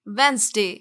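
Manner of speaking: वेंसडे said WENS-day; silent D. Shown as a demonstration. Teacher repeats the correction, D silent. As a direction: say वेंसडे in two syllables, no first d. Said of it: "डी का sound बिल्कुल भी नहीं".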